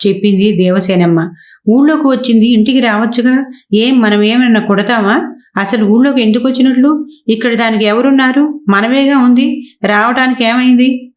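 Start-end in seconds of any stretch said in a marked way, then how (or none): 1.7-2.5 ఊళ్ళోకి pitched higher in mild annoyance; a husband's restrained irritation, voice lifted on ఊళ్ళోకి; mild angry husband. Acted. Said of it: "అన్నాడు కోపంతో". 2.5-11.1 higher-pitched, understated irritation; a father's grumbling questions, lightly voiced; mild angry husband. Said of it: "అన్నాడు కోపంతో".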